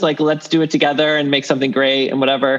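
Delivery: normal talking voice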